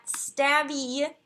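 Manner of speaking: "Stabby" drawn out slowly as STAB-ee; chosen pronunciation. Shown as a demonstration. Streamer naming a clan, says "Stabby" slowly as STAB-ee. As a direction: say "Stabby" slowly, STAB-ee, short a, stress on the first part. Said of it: "That's how I'm choosing to pronounce it".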